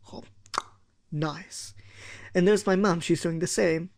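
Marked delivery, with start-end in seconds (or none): 0.1-1.7 soft satisfied nice. Acted. Tasting food.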